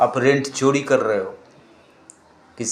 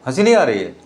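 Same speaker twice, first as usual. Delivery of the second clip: laughing; 3 semitones lower, faster than usual. Real, not acted. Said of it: "ये भी तो हंसने की बात है".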